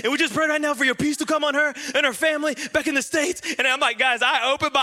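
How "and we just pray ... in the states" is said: high, mock European-accented prayer; hammed-up imitation of a European accent; passionate European accent. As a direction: pray fervently in a put-on European accent. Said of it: "it's all in a European accent".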